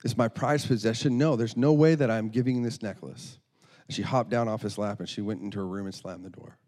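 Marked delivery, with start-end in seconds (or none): 0.0-3.4 acted indignant protest, punched in places; angry. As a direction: play an offended little girl digging in. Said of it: "she became angry and said".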